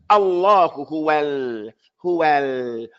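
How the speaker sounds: "Allahu" with a held double l, "huwal" ending on a light l; shadda and sukoon. Shown as a demonstration. Teacher guiding the reader, slow, distinct lams. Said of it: "You have to make the same".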